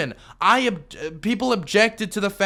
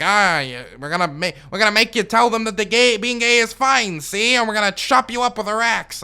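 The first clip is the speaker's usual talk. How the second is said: mock gangster voice, higher and louder; mock tough guys; 4 semitones higher, 3 dB louder than usual. Mocking the video's animated thugs with a hammed-up gangster voice. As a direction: ham up a cartoon thug's threat.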